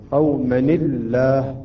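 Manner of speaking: قومًا الله slowly split, "qawma... ni-llah"; slow down and give the n of قومًا an "i" into الله; kasra on nun. Shown as a demonstration. Teacher showing the added kasra, slow split reading. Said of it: "نعطي كسرة للحرف الأول".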